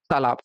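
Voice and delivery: तालाब with long ता; correct pronunciation. Shown as a demonstration. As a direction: say तालाब with a full long first vowel. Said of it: "बोलना हमको क्या रहता है". (तालाब लंबे आ के साथ)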